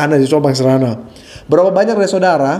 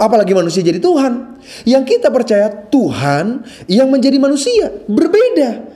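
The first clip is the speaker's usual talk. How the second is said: emphatic preaching; 2 semitones higher than usual. Acted.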